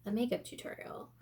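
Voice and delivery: breathy unvoiced whisper. Real, not acted. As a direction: drop to a whisper. Whispered aside about breathlessness.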